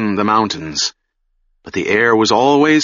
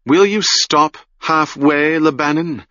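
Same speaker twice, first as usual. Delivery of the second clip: mocking inner voice; 6 semitones higher than usual. A narrator's reading. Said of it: "mocking voice of his will".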